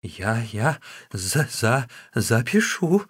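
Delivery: a slow, stuttering, frightened mumble; the scribe stammering in fear before Wu Song. Acted. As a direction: trip over every syllable in terror. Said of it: "бормотал, заикаясь и дрожа от страха".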